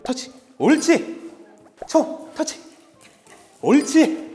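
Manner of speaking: high, loud playful commands; excited dog cues. Real, not acted. Trainer playing touch with the dog, high and excited. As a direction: keep the dog hyped.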